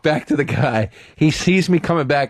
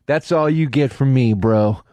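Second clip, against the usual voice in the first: dismissive clerk; 4 semitones lower, slower than usual. Retold or imitated.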